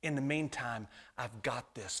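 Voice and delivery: mock casual brush-off. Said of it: "we gladly acknowledge his presence".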